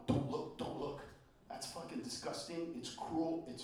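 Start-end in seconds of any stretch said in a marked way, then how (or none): 0.1-1.0 hushed scolding. Retold or imitated. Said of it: "and going".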